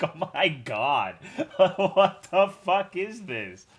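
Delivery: slow and loud, through laughter; stunned laughing reaction, high and loud; laughing disbelief. Retold or imitated. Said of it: "And I'm just like".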